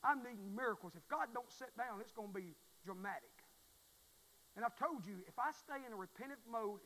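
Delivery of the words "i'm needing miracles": I'm needing miracles said louder; louder repeat. Shown as a demonstration. Preacher to congregation, I'm needing miracles louder. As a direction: press it home to the church.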